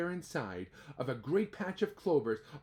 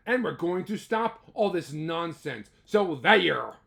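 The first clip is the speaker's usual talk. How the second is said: mock shouting; 5 dB louder than usual. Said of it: "came shouting".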